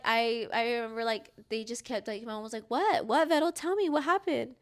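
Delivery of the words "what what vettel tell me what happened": higher-pitched imitation of an insistent mom; urgent questioning. Mom pleading with daughter to tell her, imitated urgent questioning. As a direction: press for an answer, voice raised in pitch. Acts out mom demanding an answer.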